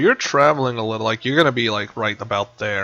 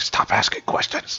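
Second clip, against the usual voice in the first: whispering. Acted. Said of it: "he's like".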